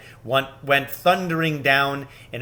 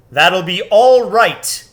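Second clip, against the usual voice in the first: calm lion; 6 semitones higher, 10 dB louder, slower than usual. A narrator's reading. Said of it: "said Aslan".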